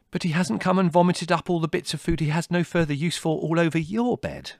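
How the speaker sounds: high, loud, mounting disgust; outraged tirade. A narrator's reading. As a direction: rant with relish at the offence. Larry's angry tirade at Mother.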